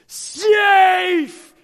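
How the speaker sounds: loud, high umpire call; umpire's yell. Retold or imitated. Umpire calling the runner safe, a loud yell. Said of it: "The home umpire yells".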